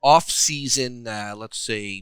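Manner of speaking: slow Michigan-ish put-on accent; mock Michigan accent. Host continuing his question, in a mock Michigan accent. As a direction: keep up the dubious Michigan accent, slowly. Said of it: "Stop talking like that".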